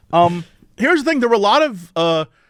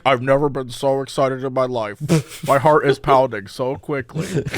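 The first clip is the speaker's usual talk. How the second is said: lower, giddy overexcited voice; breathless excitement; 7 semitones lower than usual. Retold or imitated. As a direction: gush like you're thrilled. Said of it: "You're like".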